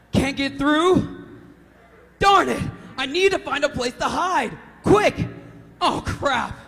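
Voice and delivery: rising panic into a scream; panicked. Acted. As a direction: build from scared to screaming terror. Horror audition, panic building.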